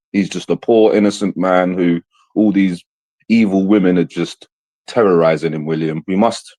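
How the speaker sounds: mock-earnest correction, thick with sarcasm; faux-serious lecture, dry and sarcastic. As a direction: pretend to scold William while meaning the opposite. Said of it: "Sorry, that was sarcasm".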